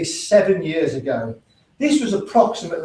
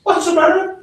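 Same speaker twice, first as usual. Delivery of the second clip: retold quarrel; 10 semitones higher than usual.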